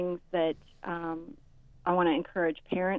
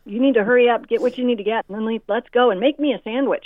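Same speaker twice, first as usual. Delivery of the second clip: higher, louder bossy order; bossy demanding teen; 4 semitones higher, 7 dB louder than usual. Retold or imitated. Teen son ordering mom in the car, loud and bossy. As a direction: boss your mom around like a rude teen.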